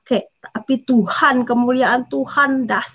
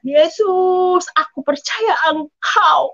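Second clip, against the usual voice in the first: drawn-out, raised plea of faith; retold desperate cry; 4 semitones higher, slower than usual. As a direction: call out slowly, stretching the words. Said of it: "kami itu teriak". (seruan iman yang dipanjangkan)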